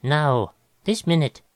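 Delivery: urgent, gasped demand. A narrator's reading. Musician clutching an official's lapels, gasping urgently. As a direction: insist on it, short of breath. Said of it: "he gasped".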